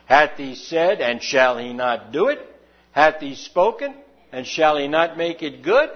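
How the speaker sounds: slow, measured reading of scripture aloud; slow scripture reading in unison. Shown as a demonstration. Pastor leads the congregation reading the verse aloud, slow and measured. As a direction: read it out slowly with the congregation, word by word. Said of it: "read this out loud with me".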